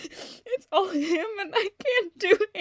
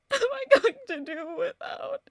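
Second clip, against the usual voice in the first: laughing through tears; 4 semitones higher than usual. Acted. Widow missing Martin.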